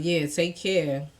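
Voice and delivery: low, subdued goodbye, drawn out; unsmiling send-off. Retold or imitated. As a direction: imitate his cool, unsmiling goodbye. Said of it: "he's not smiling".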